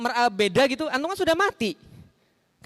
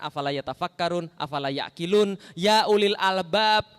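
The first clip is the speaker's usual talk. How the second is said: recitation; 6 semitones lower, slower than usual. Acted. Quotes Quranic Arabic slowly.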